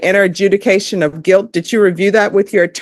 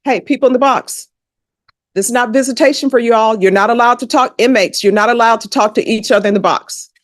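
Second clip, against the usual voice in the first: raised-pitch reprimand across the courtroom; stern call to order; 3 semitones higher than usual. Real, not acted. Judge telling inmates to stop talking, stern call to order.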